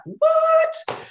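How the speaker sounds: very high, loud squealed "what"; retold shocked disbelief. Healer retelling her shock at a client channeling, mock-stunned squeal. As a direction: imitate your own stunned reaction, pitch leaping right up.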